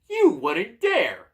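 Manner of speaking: high, loud drawn-out shriek. Acted. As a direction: shriek it slowly as an outraged talking door. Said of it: "shrieks the door".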